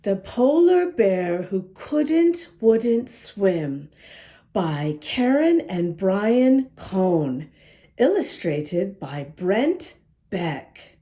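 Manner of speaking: lively read-aloud storytelling voice; story narration. A narrator's reading. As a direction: read it like a picture book to kids. Reads story aloud to children.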